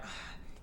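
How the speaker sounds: soft, voiceless sigh; acted sigh. Ichiko pretending to give in to Momiji, acted sigh. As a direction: sigh as if giving in. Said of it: "Ichiko's like".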